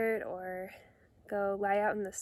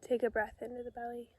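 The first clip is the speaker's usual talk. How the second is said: hushed meditation cues with long silences; calm, understated breathing instructions; guided meditation; 8 dB quieter, faster than usual. Real, not acted. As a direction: guide the breath gently, leaving space after each phrase.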